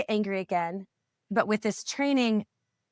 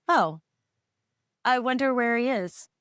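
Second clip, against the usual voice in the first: neutral thought; 3 semitones higher than usual. Retold or imitated. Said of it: "It was such, like, a neutral thought".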